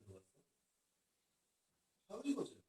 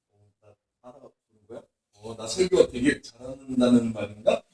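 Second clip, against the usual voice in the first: lower, self-flattered musing; inner smug thought; 10 semitones lower, 7 dB quieter than usual. Retold or imitated. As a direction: voice a secretly pleased inner voice. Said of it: "으쓱하고 싶은 마음". (속으로 으쓱하는 혼잣말, 낮게)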